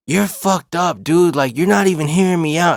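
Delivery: retold exasperated outburst; upset complaint. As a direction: imitate someone fed up at not being heard. Girlfriend's angry parting complaint.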